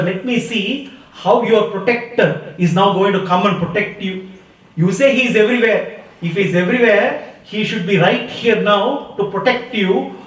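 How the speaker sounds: a touch of anger, challenging; angry challenge. Acted. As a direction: act out a mad king daring the boy's protector. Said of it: "Hiranyakashipu is really mad at Prahlada".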